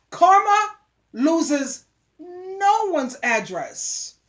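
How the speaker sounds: karma loses no one's address, dragged out very slowly; slow warning. Real, not acted. Vlogger warns johns slowly about karma. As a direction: let every word land, slowly. Moral punchline of the rant.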